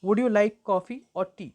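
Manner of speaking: slow "Would you like coffee or tea", key words stressed; weight "like" and "coffee", measured pace; sentence stress demo. Shown as a demonstration. Teacher demonstrating stress to learners, slow with key words stressed. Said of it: "ई आप ज़्यादा stress नहीं देते".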